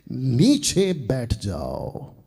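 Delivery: slow, drawn-out divine order; God's command. Acted. Preacher voicing God's word to a dethroned king, slow command. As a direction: stretch each word out as a solemn command. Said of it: "परमेश्वर इसके द्वारा कह रहा है".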